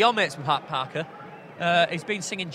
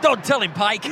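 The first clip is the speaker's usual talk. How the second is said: Captain Mainwaring impression. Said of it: "Dad's Army".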